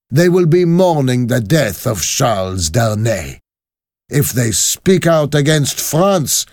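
high, forceful, ruthless leader; vengeful revolutionary woman. Acted. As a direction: declare a death sentence to conspirators. Voices Madame Defarge.

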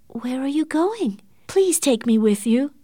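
put-on a young woman begging her fiancé not to leave without her; imploring. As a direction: beg him to take you along. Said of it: "Catherine implored".

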